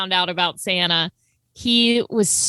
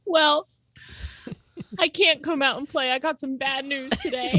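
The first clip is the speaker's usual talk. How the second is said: mock gloomy kid; 5 semitones higher than usual. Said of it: "And my brother goes".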